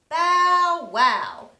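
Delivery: loud bow wow bark; dog bark. Acted. Teacher barking as the big red dog, loud.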